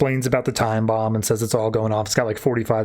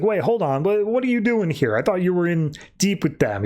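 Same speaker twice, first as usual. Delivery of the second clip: higher, puzzled challenge; retold incredulous questioning; acted bafflement; 5 semitones higher than usual. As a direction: imitate someone caught off guard, pitch up. Acted teammate baffled by Manta's appearance.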